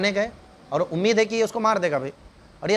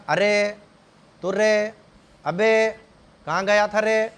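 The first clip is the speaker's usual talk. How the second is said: louder, rough mock scolding of a boy; rude scolding tone; 2 semitones higher, 3 dB louder, slower than usual. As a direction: bark at the son like a careless parent. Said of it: "یہی سارے لہجے ہیں ہمارے ہاں". (بدتمیز ڈانٹنے والا لہجہ)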